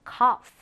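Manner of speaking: "cough" ending in a clear F sound. Shown as a demonstration. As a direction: say "cough" with gh pronounced as f. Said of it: "지에이치는 프로 발음한다".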